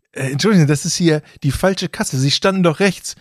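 politely but insistently object to a queue jumper; re-enacted affronted objection; indignant complaint.

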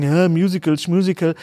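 lightly sneering quote of musical haters; mock dismissive. Podcaster mimicking people who dislike musicals, lightly dismissive. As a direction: imitate the scoffers. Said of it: "jetzt gibt's wieder Leute, die sagen".

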